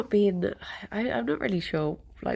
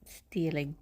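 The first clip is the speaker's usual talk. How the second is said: whispering; 4 semitones lower, 5 dB quieter than usual. Pretend. Repeats the word, first whispered.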